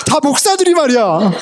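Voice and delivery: high-pitched comic grumbling; hammed-up, high-pitched anger; mock angry outburst. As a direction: gripe in exaggerated indignation, amused at yourself. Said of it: "되게 화를 내고 있더라".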